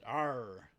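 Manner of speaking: R pronounced hard, without a roll; American R. Shown as a demonstration. New Zealander showing how Americans just pronounce the R, untrilled. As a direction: hold a strong American R, no trill. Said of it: "They just pronounce it".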